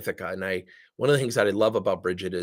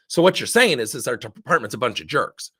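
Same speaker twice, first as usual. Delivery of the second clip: emotional retort; 5 dB louder than usual. Retold or imitated. Meeting participant reacting to a colleague's idea, mildly emotional. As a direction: imitate a touchy, accusing reply. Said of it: "not your emotions like".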